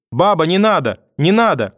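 loud, high terrified plea; frightened pleading. Acted. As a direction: beg her to stop in fear. Boy crying in terror. (испуганная мольба)

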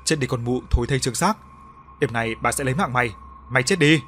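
nguyền rủa căm hận, câu cuối to hơn; rít qua kẽ răng như mụ phù thủy đang trù ếm; rít lên độc địa. Acted. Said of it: "miệng không ngừng rít lên những âm thanh chết chóc". (Ả Loan đâm hình nhân, rít lời nguyền căm hận)

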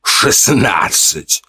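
очень медленно, издевательски протянуть «Шестнадцать»; передразнить, смакуя слово; насмешка. Acted. (главарь глумится, растягивая слово)

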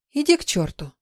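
grumpy. Acted. Sleepy heroine snaps at husband.

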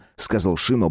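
ordinary delivery, nothing marked

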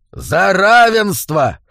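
high, loud, slow bark; barked toast. A narrator's reading. Assassin raises mug and barks a toast, loud. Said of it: "гаркнул".

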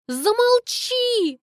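high, very slow, loud cry; hammed-up anguished shout; tragic plea. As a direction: beg him to stop, dragged out. Begging Kolya to stop.

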